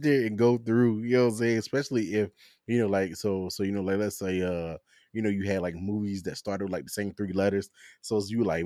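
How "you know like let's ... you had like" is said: normal talking voice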